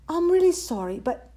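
high-pitched little apology; apologetic. A narrator's reading. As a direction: plead sorry as a young creature. Timid chick refuses meat.

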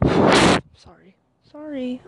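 breathless from walking; sighing for breath between words. Real, not acted. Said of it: "I run out of breath".

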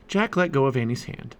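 ordinary delivery, nothing marked

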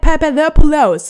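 mock English accent, slow and drawn out on Παπαδόπουλος; anglicised Παπαδόπουλος. Shown as a demonstration. Host mocking foreign readings of Greek surnames, mock English accent. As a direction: mangle Παπαδόπουλος like an English speaker. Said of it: "και να το λέγανε".

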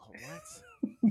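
very high, squeaky "What?"; shocked squeak. Retold or imitated. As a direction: squeak it in disbelief. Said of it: "I was like".

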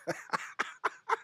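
breathless wheezing laugh; silent wheeze. Real, not acted. Cracking up at own joke.

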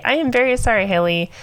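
earnest, sincere apology; mean every word of it. Real, not acted. Apologising to the victim with sincerity. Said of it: "and with sincerity".

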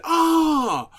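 high furious shrieking boss; enraged boss yelling. Retold or imitated. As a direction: scream it like a stung giant. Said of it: "And then".

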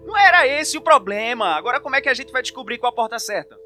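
exasperated. Acted. Exasperated at Brock.

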